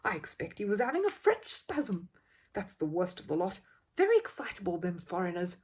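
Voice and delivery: knowing bystander; know-all man. Acted. First man goes on, knowing.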